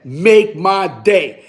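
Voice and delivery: slow, lightly voiced tough-guy line; a hint of Clint Eastwood, slow and deliberate. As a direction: lay it down slow like a movie hard man. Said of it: "He had that Clint Eastwood".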